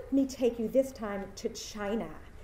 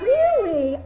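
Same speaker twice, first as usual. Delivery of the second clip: surprised; 8 semitones higher, 10 dB louder than usual. Retold or imitated. Student hears the teacher is from Stanford.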